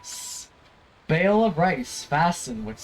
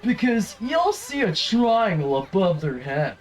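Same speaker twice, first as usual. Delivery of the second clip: high chirpy guide; 6 semitones higher than usual. Acted. Player voicing the tutorial helper to the wolf, high chirpy. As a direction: chirp like a bubbly little sprite.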